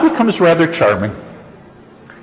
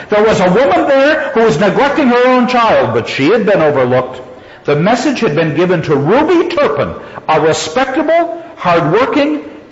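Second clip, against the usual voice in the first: story reading; 3 semitones higher than usual. A narrator's reading. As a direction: read the passage aloud, voicing Ruby's self-righteousness. Lecturer reads story passage aloud.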